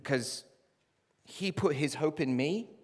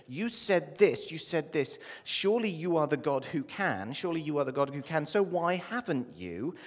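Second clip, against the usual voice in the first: louder, higher and slowed, pleading with God; anguished plea to God; 4 semitones higher, 4 dB louder than usual. Acted. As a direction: cry out the accusing prayer, building in force. Pastor voicing anguished prayer to God.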